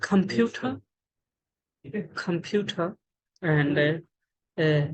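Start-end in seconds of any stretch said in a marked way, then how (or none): 0.0-3.0 computer with a puff of air on the t; aspirated T. Shown as a demonstration. Teacher showing T mid-word, aspirated t in computer. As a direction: say computer carefully as compu-t-her. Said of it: "this letter as a ta".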